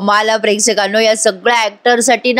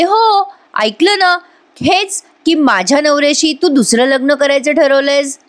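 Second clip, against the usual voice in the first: much higher, breezy sarcasm; wife mocking the rival, high and airy; sarcastic comeback; 4 semitones higher than usual. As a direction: toss the jab off lightly. Sayli's cutting comeback.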